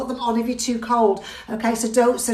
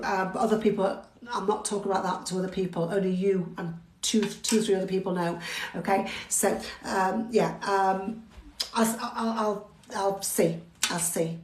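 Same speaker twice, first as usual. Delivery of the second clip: much softer and lower, hesitant confiding; hushed aside; 5 semitones lower, 8 dB quieter than usual. Real, not acted. Instructor privately tells Maria about bad news, hushed and hesitant. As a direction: confide quietly, trailing off.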